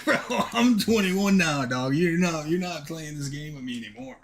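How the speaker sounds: mock-furious bro rant; heated protest. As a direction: lay into the coach, fed up. Angrier retelling of the protest.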